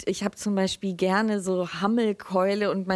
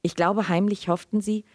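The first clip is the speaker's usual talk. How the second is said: measured literary reading aloud; Lesung. A narrator's reading. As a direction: read the story evenly to an audience, in clear phrases. (ruhig vorgelesene Erzählung)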